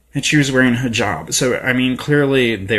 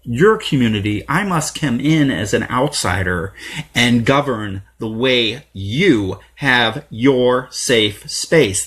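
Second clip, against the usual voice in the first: mocking narcissist; 4 semitones higher than usual. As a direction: ham up a self-important outsider. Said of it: "putting our narcissism first and saying".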